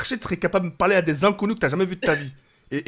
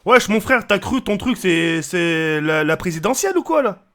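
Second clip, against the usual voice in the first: heckling a friend; 5 dB louder, slower than usual. Real, not acted. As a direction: loudly rib your mate. Loud teasing complaint at friend. (chambrage à voix haute)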